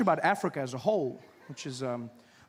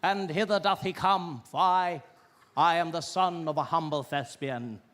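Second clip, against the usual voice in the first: grand, measured thespian delivery; theatrical stage actor; slower than usual. Acted. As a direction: declaim like a classical stage actor. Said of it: "actors just walking out there".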